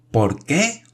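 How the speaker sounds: high, strained repeated shout; shouted again. A narrator's reading. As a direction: shout it a second time. Repite gritando. (grito repetido y agudo)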